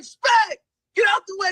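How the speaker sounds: high and loud, playful; excited joking. Retold or imitated. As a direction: shove him aside with glee. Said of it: "He's like".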